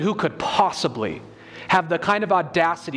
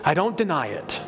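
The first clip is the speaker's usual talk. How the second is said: reluctant admission; 3 semitones lower than usual. Retold or imitated. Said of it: "If I get you to admit something".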